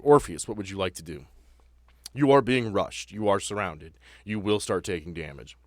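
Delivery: normal talking voice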